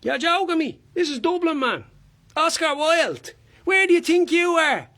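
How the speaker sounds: high, incredulous Dublin rant; indignant Dublin busker. Acted. Busker confronting an official over licensing, indignant Dublin voice. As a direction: challenge the official with mounting outrage.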